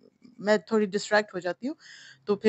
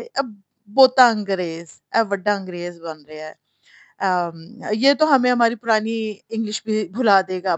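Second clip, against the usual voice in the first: mocking commenters; 4 dB louder than usual. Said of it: "उनके नीचे लोगों ने कमेंट्स किए हुए थे".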